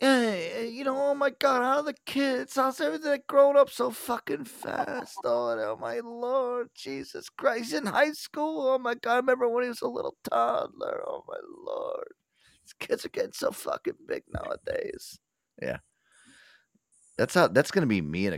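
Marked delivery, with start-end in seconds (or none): 0.0-15.2 put-on very high, gushing, doting old-timer voice. After a listener praises the impression, continuing it, imitating an old-timer gushing. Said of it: "I like your impression".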